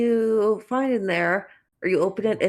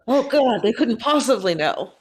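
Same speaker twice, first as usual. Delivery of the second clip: louder, higher gasp of dread; hammed-up horror with a laugh in it; mock horror; 4 semitones higher, 4 dB louder than usual. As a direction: play up the horrified reaction. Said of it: "Mist will react in horror".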